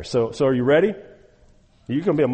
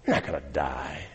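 low, hushed serpent's whisper, coaxing; sly serpent; 9 semitones lower than usual. Acted. Preacher voicing the serpent to Eve, low and hushed.

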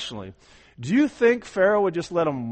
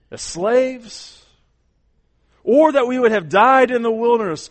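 louder, higher, building preacher's cry; full-force preaching; 10 semitones higher, 9 dB louder than usual. Acted. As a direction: lift the congregation with soaring proclamation. Preacher voicing Israelites' complaint.

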